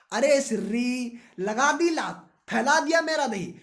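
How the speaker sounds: hammed-up fury at the partner; mock angry yell. Student scolds partner for spilling curd, loud mock yell. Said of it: "चिल्ला के बोले".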